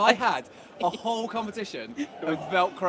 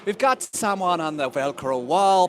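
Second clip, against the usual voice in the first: Irish accent; 4 semitones higher, 8 dB louder, slower than usual. Shown as a demonstration. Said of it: "I'm quite happy to do it in my Irish accent".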